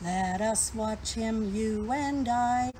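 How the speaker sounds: slow, drawn-out rhyme reading; poem recital. Acted. Teacher reciting a fly rhyme to young viewers, slow and sing-song. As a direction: savour each line of the little rhyme.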